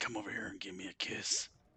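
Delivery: really brawny put-on voice. Describing a woman's voiceover, the speaker imitates her: really brawny voice. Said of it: "this really brawny voice".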